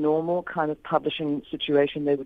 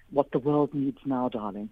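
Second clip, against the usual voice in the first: imitating Stephen Fry; 3 dB quieter than usual. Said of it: "he has spoken about it as being".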